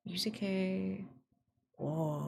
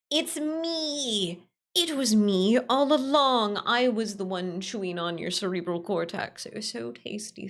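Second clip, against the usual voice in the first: brain worm voice; 3 semitones higher, 3 dB louder than usual. Acted. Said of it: "I'm the brain worm".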